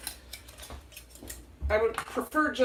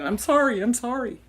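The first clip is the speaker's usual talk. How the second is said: louder, quick repeated apology; reflexive apology; 3 semitones higher, 5 dB louder than usual. Retold or imitated. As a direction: blurt out the sorries like a habit. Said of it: "because I keep saying".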